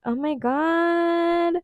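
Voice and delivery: high, slow, tearful; choked up and tearful; teary laugh. Real, not acted. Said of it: "getting teary-eyed".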